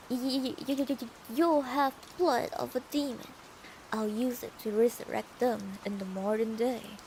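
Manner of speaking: stuttering, slightly crazed madman; crazy man. Acted. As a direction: stammer into a mad declaration. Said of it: "make him sound a bit crazy".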